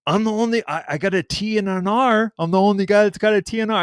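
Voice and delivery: retelling his own claim to the win; indignant argument. Retold or imitated. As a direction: argue your case fast. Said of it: "And then I'm like".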